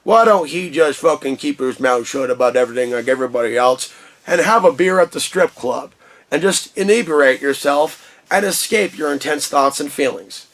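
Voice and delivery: a hint of a scornful roommate; mock neighbor griping. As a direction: sneer it out like a fed-up neighbor. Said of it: "would hear the sound of the speaker, roll their eyes".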